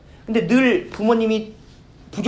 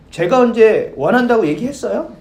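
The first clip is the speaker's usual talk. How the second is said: sassy retort; 3 semitones higher, 6 dB louder than usual. Retold or imitated. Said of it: "이렇게 얘기한다라는 거예요".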